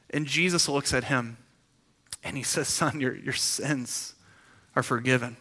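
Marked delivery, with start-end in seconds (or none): 2.7-5.4 soft, slow and gentle, like a kind father; softer, slow words of release to the man; tender pronouncement. Acted. Jesus speaks to paralyzed man.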